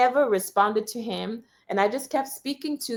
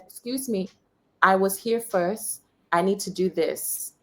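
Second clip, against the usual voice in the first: gentle voice. Retold or imitated. Calmly asking the bank clerk for her turn, gentle. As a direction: keep it calm and gentle, no fight. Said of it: "I said it in a very gentle voice".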